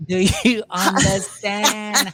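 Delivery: slow, drawn-out warning; hammed-up menace; mock stern husband. Cohost plays the stingy husband warning Hamza, slow.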